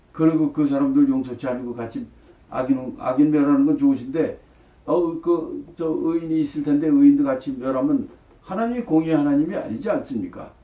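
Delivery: imitating a forthright, pressing protest; boldly arguing. Abraham reasons with a just God, acted bold arguing. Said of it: "아주 당돌하게 따지는 거예요".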